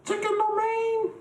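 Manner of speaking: squealed caricature Asian accent, very high; mock Asian accent. Shown as a demonstration. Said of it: "how do Asians sound for real?".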